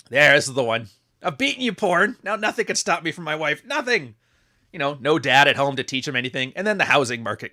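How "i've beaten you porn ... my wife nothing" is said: mock triumph. Mocking a meme character's triumph.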